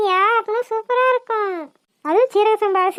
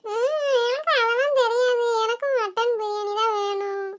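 whining cry; 4 dB quieter than usual. Acted. Child demanding biryani, crying.

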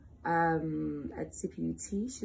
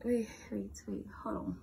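whisper; 2 semitones higher, 5 dB quieter than usual. Real, not acted. Sudden stop to hold on.

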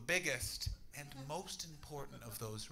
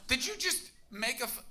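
high, loud outraged disbelief; exasperated yelling; 11 semitones higher, 5 dB louder than usual. Real, not acted. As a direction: shout at the heckler in disbelief. Yelling at audience thrower.

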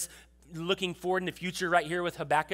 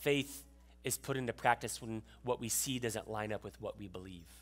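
slow dictation; 7 semitones lower, 9 dB quieter than usual. Shown as a demonstration. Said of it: "something for you to take notes with".

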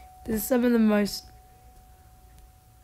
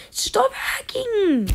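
much higher, slow drawn-out yell; furious yell; 9 semitones higher, much slower than usual. Real, not acted. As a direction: stretch it out in outrage. Yelling at a hacker.

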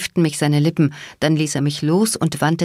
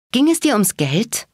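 hissed sharp question, higher; angry hissed question at the traitor; 7 semitones higher than usual. A narrator's reading. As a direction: spit the question out in a hiss. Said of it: "zischte ich".

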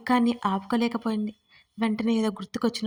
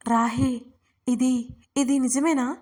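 trembling voice; 3 semitones higher, 4 dB louder, slower than usual. Acted. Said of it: "వణికే గొంతుతో అడిగింది".

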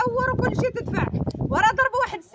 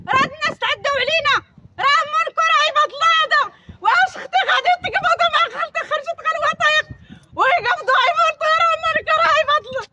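raised heated protest; angry crying; 3 semitones higher, 3 dB louder than usual. Real, not acted. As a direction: cry out against the injustice. Heated protest over arrests.

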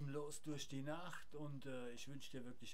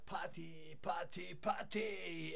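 party chant growing louder; frat bro; 4 dB louder than usual. Acted.

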